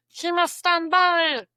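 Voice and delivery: loud, high drawn-out order; playful official shouting an order; mock command. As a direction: call it out slowly, high and forceful. Commanding pet away from food.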